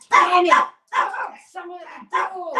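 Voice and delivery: loud, high exasperated damn; real irritation at the doorbell; annoyed outburst. Real, not acted. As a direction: blurt it out when interrupted. Doorbell interrupts live class.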